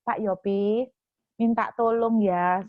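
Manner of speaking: slow, gentle asking; polite request. Shown as a demonstration. The ideal polite way to ask the host for help, slow and gentle. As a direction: ask kindly, unhurried. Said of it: "Dia itu nggak tanya gini".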